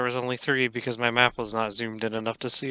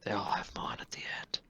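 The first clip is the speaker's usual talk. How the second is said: whispered aside; 4 semitones lower, 15 dB quieter than usual. Real, not acted. Joke aside, dropped to whisper.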